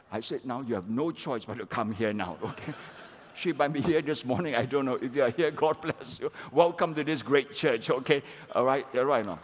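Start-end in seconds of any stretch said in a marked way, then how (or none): 0.4-2.7 chuckling through the words; laughing. Real, not acted. Laughing at the coincidence. 3.4-9.4 louder, calling out to the congregation; a big public welcome from the pulpit; warm loud welcome. Real, not acted.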